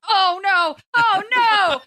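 high-pitched mock wail of dismay; imitated group dismay. Intern retelling the whole studio's reaction, mock dismay. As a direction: act out a room crying out in horror.

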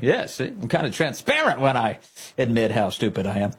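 lightly mimicked bragging; mock show-off. Host imitating the reporter admitting error, lightly mocking show-off. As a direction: parody him showing off, only lightly. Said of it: "he's like a show off".

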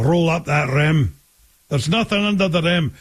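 imitated Scottish accent; mimicking a Scottish wife's accent. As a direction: put on a light Scottish burr. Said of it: "Being from Scotland".

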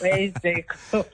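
slow, drawn-out wistful asking; longing plea. Retold or imitated. Caller pining for the host's old car feature, slow and wistful. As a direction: stretch it out like you miss him.

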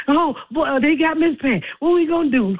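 imitated panic, pitched well up; high-pitched mock helpless worry; Bert falling apart. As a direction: mimic a friend fretting in a high voice. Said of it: "he fell apart".

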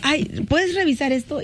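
high, worried asking for reassurance over and over; nervously begging a coworker to check every line; anxious pleading. Retold or imitated. To a coworker, asking him to check his email, high and anxious.

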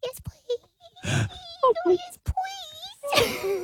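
dog's voice. Pretend. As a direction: sigh yes please like a pampered pup. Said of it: "Do you want me to scratch your belly?".

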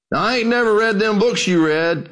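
a hint of an old country preacher speaking up. Old preacher standing to question the scholar, lightly voiced.

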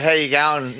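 "How you going" slurred together as a single word; broad Aussie "How you going" with the words merged; run into one word. Shown as a demonstration. Host teaching an American caller, "How you going" run into one word. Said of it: "You can make one word".

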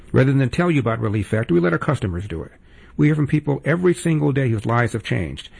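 brisk, upbeat sponsor read. Acted. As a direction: sell it like a radio spot. Host reads sponsor ad.

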